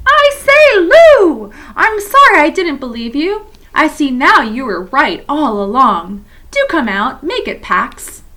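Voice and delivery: high, loud pleading call, fading at the end; shouted apology. A narrator's reading. Edmund calling an apology to Lucy, loud then softening. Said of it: "So he shouted again".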